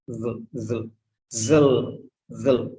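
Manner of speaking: "zil" said as "zul"; short schwa. Shown as a demonstration. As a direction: shrink the vowel of "zil" to a weak schwa. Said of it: "Very short, shortest sound".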